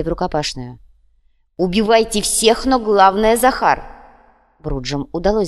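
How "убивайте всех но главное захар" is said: high, loud killing order; battle shout. A narrator's reading. Leader sends fighters after Захар, loud shout. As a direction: yell the command across the fight.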